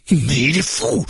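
high, panicked exclamation; incredulous, frightened cry; alarmed outburst. A narrator's reading. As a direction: blurt it out, pitch leaping. Gunman reacts to Juna's threat.

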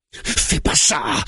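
high, drawn-out warning cry; alarmed, high-pitched command; bellowing. A narrator's reading. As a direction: bellow it to stop him. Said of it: "bugle le barbu".

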